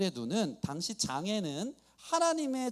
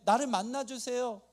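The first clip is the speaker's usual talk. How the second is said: mildly raised, insistent prayer; acted earnest pleading; 4 semitones higher than usual. Believer begs the nearby Lord for help, mildly urgent plea. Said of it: "이 간절함이 있는데".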